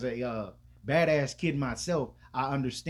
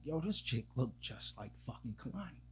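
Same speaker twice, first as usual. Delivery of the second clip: much softer inner voice; thinking to himself; 11 dB quieter than usual. Retold or imitated. His thought about the lady pouring wine, soft inner voice. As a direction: say it like a thought in your head. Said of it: "in my mind".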